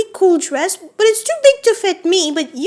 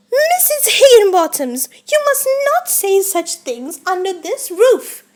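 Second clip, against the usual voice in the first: lightly scandalized hostess telling off; mock scolding. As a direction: play at reprimanding a rude guest. Pretend scolding of a doll guest.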